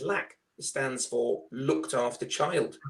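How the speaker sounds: slow, deliberate explaining to a slow pupil; slow patronising explanation. Retold or imitated. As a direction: spell it out as if to a child. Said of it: "So she says".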